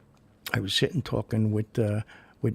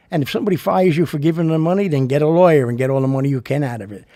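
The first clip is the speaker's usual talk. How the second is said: louder, fast, insistent; emphatic rant; 3 semitones higher, 7 dB louder, faster than usual. Real, not acted. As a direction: hammer the point home. Urging: sue if fired.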